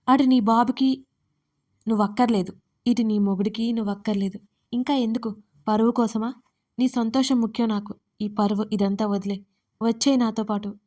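heated pleading; passionate outburst. Acted. Surya urging Dharani to leave, heated outburst. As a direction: push her to come, heated. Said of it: "అన్నాడు ఆవేశంగా".

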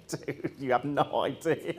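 slow, laughing dismissal; laughing retort. Retold or imitated. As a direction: laugh it off at them slowly.

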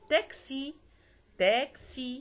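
تاكسي with a clear "ks" in the middle; French تاكسي, said "taksi". Shown as a demonstration. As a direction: sound the X in تاكسي as k plus s. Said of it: "بنطقه إكس".

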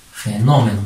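"fenómeno" with weight on NÓ; stress on -nó-. Shown as a demonstration. Teacher repeats for pupils, stressing -nó- in "fenómeno". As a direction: lean on the second syllable NÓ of "fenómeno". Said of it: "en la mayor fuerza de voz".

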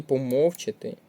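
помовчати stressed on МОВ; помовчати as по-МОВ-чати; stress on second syllable. Shown as a demonstration. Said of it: "на другий склад".

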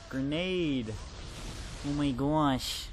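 loud alarmed shout. Real, not acted. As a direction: call out the grenade loudly. Grenade lands, shouting.

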